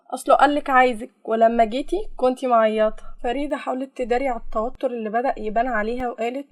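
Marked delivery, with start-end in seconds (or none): 0.1-3.0 louder, pointed sly needling; sly insinuation. Acted. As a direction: press her with a knowing insinuation. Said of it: "كملت سارة بنفس الخبث". (تلميح بخبث)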